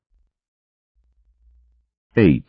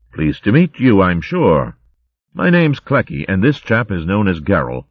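a hint of a jolly old-chap hare; lightly voiced posh hare; 3 semitones higher than usual. Clecky chatting to Gerald in the line, cheery. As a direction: bluster like a cheery hare officer.

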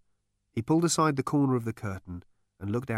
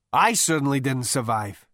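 gurgling, louder, strained voice; 4 semitones higher, 6 dB louder than usual. Acted. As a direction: gurgle it out from the floor. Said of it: "he gurgled".

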